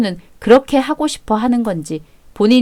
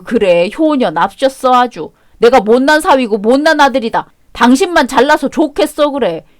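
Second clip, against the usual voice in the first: sarcastic sneer. Acted. Husband mocking his wife as a dutiful daughter, sarcastic. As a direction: drag it out with contempt.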